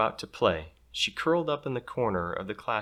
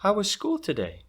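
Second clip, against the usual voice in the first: mom; 11 semitones higher than usual. Acted. Mom picks up daughter.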